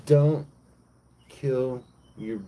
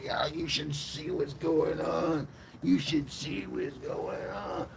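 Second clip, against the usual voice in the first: high, drawn-out mock alarm; freaking out; 6 semitones higher, 3 dB quieter, slower than usual. Angels running back to report what they saw, freaking out. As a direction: tattle in a slow, high, freaked-out voice. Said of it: "they start freaking out".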